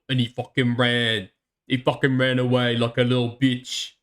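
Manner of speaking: put-on Jersey guy doing a half-hearted British accent; mock British accent. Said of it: "my New York accent is better than his British accent".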